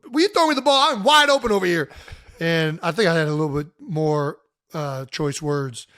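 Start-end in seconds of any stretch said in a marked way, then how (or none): 0.1-1.9 high, loud shout at the quarterback; retold yell. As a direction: yell for the ball across the field. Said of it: "And I yell at him".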